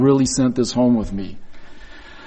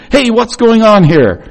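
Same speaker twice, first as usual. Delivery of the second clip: calling out; 7 semitones higher, 6 dB louder than usual. Retold or imitated. Older son calls to servant.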